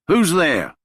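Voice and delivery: high, loud call into the shadows. Acted. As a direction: shout it into the dark. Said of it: "Donnie calls out".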